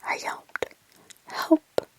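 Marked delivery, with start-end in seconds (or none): 1.3-1.9 a faint crying whisper; weak plea. Acted. Mutilated girl begging Mark for help, weak crying whisper. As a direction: breathe it out weakly, hurting. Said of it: "she sounded weak".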